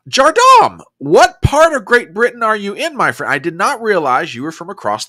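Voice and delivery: high, loud, delighted call to the viewer; surprised excited call. Real, not acted. Surprised host calls out to a British viewer, high and loud. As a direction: pitch it way up in happy surprise.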